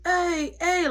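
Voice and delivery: high imitation of inmates calling out; inmates talking. Inmates talking between cells, calling out high. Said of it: "like, talking".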